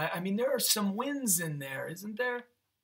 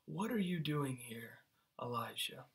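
much softer, hushed question; quiet voice of God; 3 semitones lower, 9 dB quieter than usual. Acted. The Lord asks Elijah in the cave, softly. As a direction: let it come as a gentle whisper. God's still small voice.

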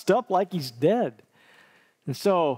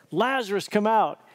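loud call; 4 semitones higher than usual. Acted. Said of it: "called out in a loud voice".

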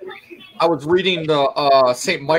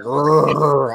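mock demonic growl. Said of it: "and then it growled".

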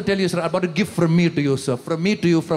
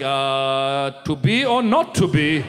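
slow, laughing mock-theatrical Shakespeare; 5 semitones lower, much slower than usual. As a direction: ham it up like a stage actor. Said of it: "Shakespearean improv".

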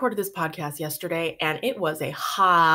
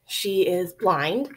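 out of breath. Real, not acted. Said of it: "sorry if I'm a little out of breath".

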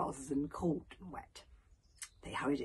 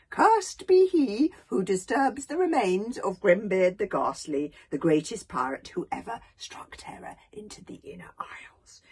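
solemn curse reading; 4 semitones higher, 7 dB louder than usual. Acted. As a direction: read it like a dark prophecy.

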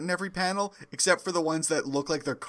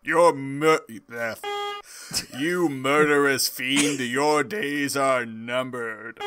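powerful voice; 3 dB louder, slower than usual. Acted. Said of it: "a powerful voice addresses him".

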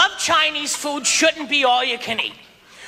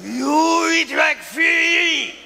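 shouted warlord; much slower than usual. Retold or imitated. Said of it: "reminded me of Lord Toranaga".

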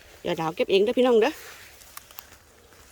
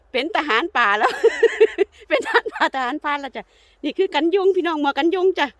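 loud, high, broken by real giggles; laughing amusement; 8 semitones higher, 8 dB louder than usual. Real, not acted. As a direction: tease merrily, bursting into laughter. Laughs at husband's ranger-like headgear. (พูดไปหัวเราะไป เสียงดัง)

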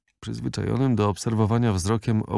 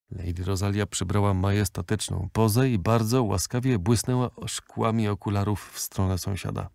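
plain reading voice

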